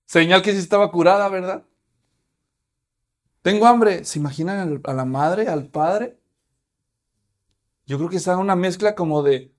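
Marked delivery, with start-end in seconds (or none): 3.4-4.0 put-on hungry girl. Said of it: "lo primero que ha de haber dicho es".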